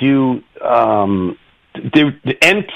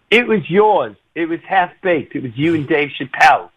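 Kelly Osbourne; 3 semitones higher than usual. Retold or imitated. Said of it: "She goes".

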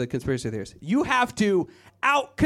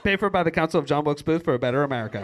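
fast, low disclaimer rattle; 5 semitones lower, much faster than usual. Retold or imitated. Smear ad closing, quick disclaimer. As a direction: rush the fine print. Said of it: "ads just like".

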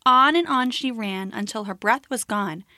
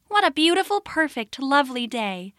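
little rabbit voice; 3 semitones higher than usual. Acted. Little rabbit admiring the day.

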